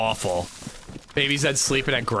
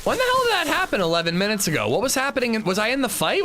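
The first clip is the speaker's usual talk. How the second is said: surprised; 13 semitones higher than usual. Real, not acted. Surprised by a donation.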